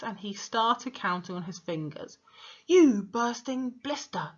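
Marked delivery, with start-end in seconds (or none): 2.7-4.3 slow, loud, higher yell in a put-on voice. A narrator's reading. Headmistress yelling at a flustered boy, slow furious yell. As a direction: drag the insult out at full volume. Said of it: "yelled the Trunchbull".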